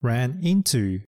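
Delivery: "ran into" said slowly; slow, careful "ran into"; teacher modelling "ran into" slowly; slow model phrase. Shown as a demonstration. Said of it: "よく日常で使うフレーズは".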